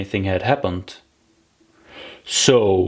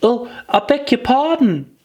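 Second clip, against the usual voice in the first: put-on higher, quick girlish apology; hasty apology; 12 semitones higher than usual. Alice apologising to the frightened mouse, higher and hasty. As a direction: blurt out sorry at once. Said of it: "cried Alice hastily".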